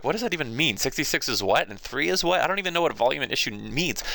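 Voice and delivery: mock puzzled questions; confused student. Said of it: "a lot of people are like".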